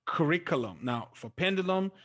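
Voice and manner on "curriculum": curriculum with RIC stressed, falling after it; stress third from end. Shown as a demonstration. Teacher showing an exception to the class, curriculum stressed on RIC. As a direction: put the weight on RIC in curriculum. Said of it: "it moves to the third from the end".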